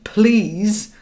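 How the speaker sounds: high, drawn-out pleading please; begging. Shown as a demonstration. Coach shows the wrong wording, begging and needy. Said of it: "which is begging".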